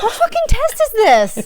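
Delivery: amused repeat of the outburst. Real, not acted. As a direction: squeak it out through laughter. Repeats it, higher, laughing.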